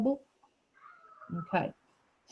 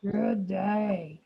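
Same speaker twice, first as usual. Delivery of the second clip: lightly growled leopard voice. Shown as a demonstration. Teacher leading children in a leopard voice, lightly growling. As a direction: put a touch of big-cat growl into it. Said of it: "It's like a growl, a deep growl".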